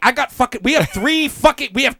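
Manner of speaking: fast, loud, high laughing brag; mock excitement, laughing; excited game play. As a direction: brag about your game pieces.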